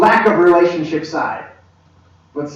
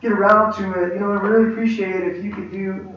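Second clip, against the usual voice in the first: higher-pitched, roundabout polite request; hesitant asking; 3 semitones higher than usual. Acted. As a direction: hedge and dither over asking a favour. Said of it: "I don't need to go".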